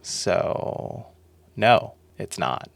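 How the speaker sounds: ordinary talk, nothing marked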